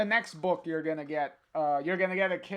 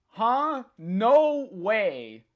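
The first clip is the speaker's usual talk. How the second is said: mildly voiced disbelief, raised and a little louder; Rachel; 3 semitones higher, 4 dB louder, much slower than usual. Rachel reacting as the comic is read aloud, mildly acted disbelief. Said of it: "And then Rachel".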